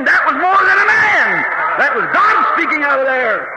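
revival preacher building to shouted climaxes; fervent preaching. Real, not acted. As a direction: tell it with driving, rising fervor. Preaches at full force.

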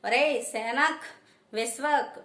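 calling them out, loud and high; mother shouting at the neighbours' gate. Acted. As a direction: yell at the house to come outside. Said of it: "గట్టి గట్టిగా అరుస్తుంది".

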